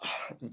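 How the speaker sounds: big tired yawn; audible sleepy yawn. Real, not acted. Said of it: "I cannot keep yawning".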